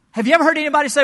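loud, high preacher's call; booming pulpit preaching; preaching at full force. Acted. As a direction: lift the whole room with it.

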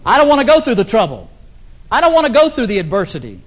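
hammed-up reluctant complaint; protesting congregant. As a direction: voice a churchgoer balking, loud and fast. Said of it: "I know some of you are saying".

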